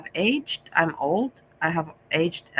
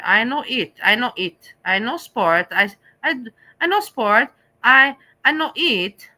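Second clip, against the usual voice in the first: mock broken Asian English building to higher and louder; 4 semitones higher, 5 dB louder than usual. Broken Asian English mocking a dieter, rising to a loud higher push. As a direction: hammer the broken Asian English lines harder each time. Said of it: "speaking broken Asian English".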